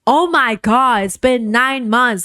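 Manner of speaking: mock annoyed spouse; exasperated partner. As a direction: act fed up with him.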